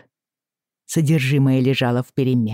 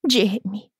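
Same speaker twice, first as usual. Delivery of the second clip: sobbing; 8 semitones higher than usual. Acted. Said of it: "всхлипнула она".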